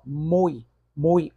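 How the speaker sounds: teacher showing the stronger vowel in mui; pronunciation demo. Shown as a demonstration. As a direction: stress the U in mui, let the I slip. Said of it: "O U sai com mais intensidade".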